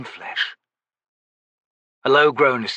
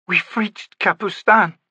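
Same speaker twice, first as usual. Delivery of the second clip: high, slow, worn-out voice; hoarse and spent, barely holding together; ragged voice; 9 semitones higher, slower than usual. A narrator's reading. Stony telling the wounded Gruntle they arrived, ragged. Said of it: "she said in a ragged voice".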